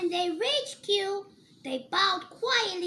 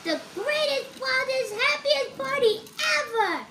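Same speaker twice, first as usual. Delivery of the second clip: higher, louder and fast, building to the end; excited finale; 7 semitones higher, 5 dB louder than usual. A narrator's reading. Narrator ending the children's story with a big, joyful, excited finish. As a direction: let the joy spill over as the story wraps up.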